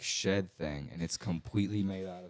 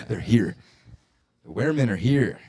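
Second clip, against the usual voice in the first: mock excited shout; 4 semitones higher, 9 dB louder than usual.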